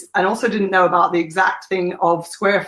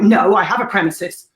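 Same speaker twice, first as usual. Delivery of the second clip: defensive; 3 dB louder than usual. Retold or imitated. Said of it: "you know, defensive".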